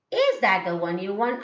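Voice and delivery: teacher's model rising question, "want" going up. Shown as a demonstration. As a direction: question lifted at the end on "want". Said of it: "the question is being raised".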